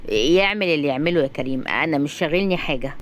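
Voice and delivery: low, cool dismissal; understated cold, low voice; coldly indifferent. Acted. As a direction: answer coldly, unbothered. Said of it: "رحيم ببرود".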